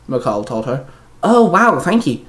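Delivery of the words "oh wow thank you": delighted, high-pitched thanks; happy high exclamation; cheering. A narrator's reading. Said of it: "Haley cheered".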